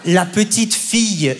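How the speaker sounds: each word dragged out slowly; slow dictation. Retold or imitated. Mother dictating to her son, slow and weary. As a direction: spell it out for the slow kid.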